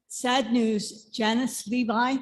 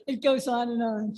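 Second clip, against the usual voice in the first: laughing lightly; 2 semitones higher than usual. Real, not acted. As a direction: chuckle as the list runs on. Laughs at her long list.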